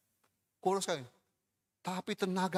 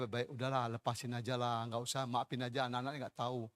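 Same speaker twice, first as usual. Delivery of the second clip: softer, coaxing the spirit to let go; gently plead, forgiving the kids; soothing, softer; 4 semitones lower, 6 dB quieter than usual. Retold or imitated. Romo asking the spirit to release the girl, soft and soothing.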